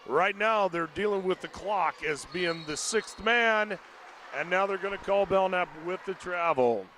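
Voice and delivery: winded commentator voice; out of breath. Real, not acted. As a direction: talk while out of breath. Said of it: "I'm just about out of breath".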